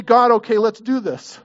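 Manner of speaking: rally yourself before the miracle; psyched-up prayer. Retold or imitated. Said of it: "Did he say".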